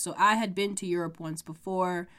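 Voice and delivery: blocked nose voice; congested. Real, not acted. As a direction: speak through congestion. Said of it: "you guys can hear my, like, congestion".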